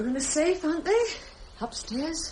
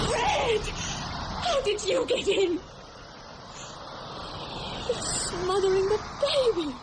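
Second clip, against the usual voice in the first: shocked cry; 5 semitones higher than usual. Acted. Finds the cat on the baby.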